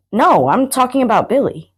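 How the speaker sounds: patient. Acted. Friend explaining he means someone else, suddenly patient. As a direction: gently set her straight. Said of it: "suddenly very patient in tone".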